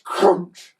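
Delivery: loud, drawn-out crunch word; crunch effect. A narrator's reading. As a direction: make the word sound like a smash. Narrator imitates hedge smashing.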